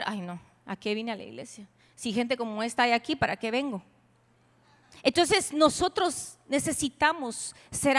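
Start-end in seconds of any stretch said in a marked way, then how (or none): 0.0-3.8 low, soft grumble to herself; lightly voiced complainer. Churchgoer put off by a sour face, mild low complaint. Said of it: "pues va a decir".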